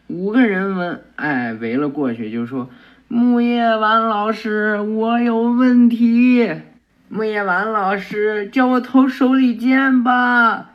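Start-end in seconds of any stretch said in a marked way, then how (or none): 3.1-10.7 fangirls clamoring for the teacher; eager schoolgirls. Acted. Girls mobbing their teacher, eager higher girlish voices.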